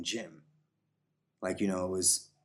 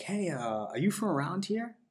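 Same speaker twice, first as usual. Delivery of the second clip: much higher, friendly girl's voice, retold; imitating the girl; 10 semitones higher than usual. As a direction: lightly play the girl asking sweetly. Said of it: "she was like".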